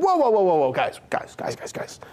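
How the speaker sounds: a hushing call that dies away to nothing; mock Jesus calming the crowd. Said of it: "He could have said".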